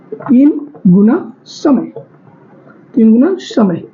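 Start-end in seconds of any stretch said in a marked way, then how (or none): 0.1-1.9 slow dictation. Shown as a demonstration. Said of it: "इसमें तीन गुना".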